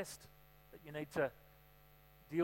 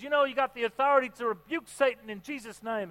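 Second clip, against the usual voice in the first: higher, louder encouraging pastor; retold pastor; 6 semitones higher, 6 dB louder than usual. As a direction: urge her on like a lively pastor. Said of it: "And the pastor says".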